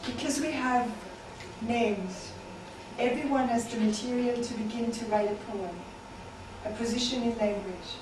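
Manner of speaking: incantatory refrain, each line falling at the end; measured poem delivery with spaced-out lines; poetry reading. Acted. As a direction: recite it as a repeating poem, pausing between phrases.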